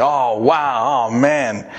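half-acted groan of a man who knows he's in trouble; mock despair. Preacher imitating the king's despair, lightly acted dismay. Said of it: "that's an expression of pain".

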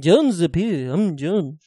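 lightly put-on mock Liverpool voice; impression of a famous singer. Host trying out John, lightly voiced impression. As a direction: attempt a British rock singer, understated. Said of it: "And then what's John?".

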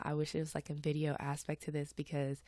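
stuffy nose, a little congested; stuffed-up voice. Real, not acted. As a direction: talk through a stuffed-up nose. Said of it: "I do sound a little stuffed up".

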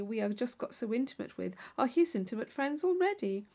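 a hint of a naive girl chatting at a ball; Catherine's voice. Young Catherine chatting with her dance partner, lightly eager. Heroine gushes about Bath.

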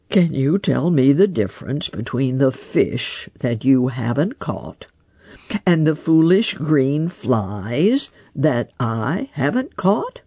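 lightly voiced wise old frog, unhurried; a hint of a croaky old frog musing. Grandfather Frog asks.

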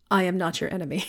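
softly and evenly, a touch of mock calm; unruffled, quietly reassuring after the blast. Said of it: "very calmly says".

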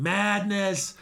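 first cry of madness, building; stunned exclamation. Retold or imitated. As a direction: call it out to the wreckage, stunned. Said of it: "he's looking over everything going".

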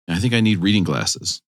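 a hint of solemn cartoon leader; Optimus Prime. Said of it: "Optimus Prime be like".

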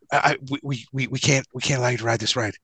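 low, halting, hushed attendant; imitated discreet murmur. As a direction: stammer it softly so others won't hear. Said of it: "the guy's whispering again".

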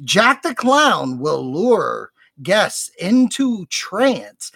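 measured, dramatic promo reading; announcer read. Acted. Host reads haunt show announcement to listeners, announcer style. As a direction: read the show blurb with theatrical emphasis.

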